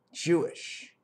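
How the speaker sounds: whispered, breathy word. Acted. Musing on word roots, whispers the word. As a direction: drop it to a secret whisper.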